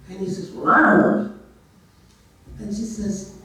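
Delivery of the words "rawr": loud wordless bear noise, rising; imitated bear growl; bear's roar. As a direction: answer like a bear that cannot talk. Bear answers again.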